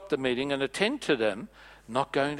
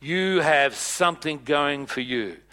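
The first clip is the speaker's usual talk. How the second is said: impressed Jesus; 4 dB louder than usual. Retold or imitated. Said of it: "And he says".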